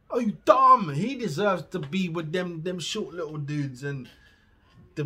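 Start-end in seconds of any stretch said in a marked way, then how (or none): 0.1-0.9 louder exasperated repeat. Real, not acted. Ranting at a top-rapper list.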